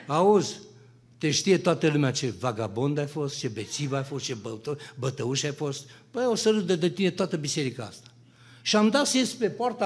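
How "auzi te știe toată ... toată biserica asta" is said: a hint of a low, mocking tempter; lightly voiced tempting voice. A tempting voice mocks him at the church gate, lightly lower. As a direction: sneer at him from inside his head, lower. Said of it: "mustre-o Domnul de voce".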